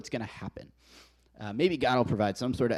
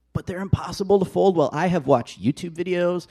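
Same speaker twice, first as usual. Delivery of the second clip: loud, higher-pitched protest; exasperated rant; 6 semitones higher, 6 dB louder than usual. Real, not acted. Husband complains about folding fitted sheets, loudly exasperated. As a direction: insist on it, voice raised in frustration.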